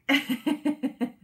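bright burst of laughter; laughing. Real, not acted. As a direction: laugh out loud at yourself. Laughs at own voice.

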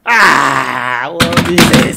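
crying out. Real, not acted. Crash, crying heard.

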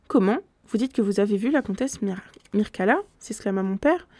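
steady, measured reading of a gothic novel; story narration. A narrator's reading. Reader narrating a gothic tale to listeners, measured narration. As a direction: read it like an audiobook narrator.

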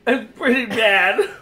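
slow speech with mouth full. Real, not acted. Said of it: "stuck to the roof of my mouth".

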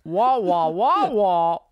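muted trombone wah wah; Charlie Brown teacher voice. Retold or imitated. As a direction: mimic the muffled adult voice from Charlie Brown. Imitating Charlie Brown adult voice.

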